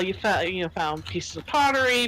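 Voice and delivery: ordinary talk, nothing marked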